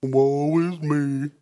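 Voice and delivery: mopey, slow Eeyore sigh of self-pity; a light imitation of Eeyore moaning. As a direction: play a gloomy donkey, lightly. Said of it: "He pulls out the Eeyore thing".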